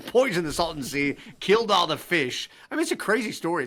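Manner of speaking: amused disbelief at the disaster; laughing while telling. Real, not acted. Host laughing to the guest about the poisoned lake, chuckling.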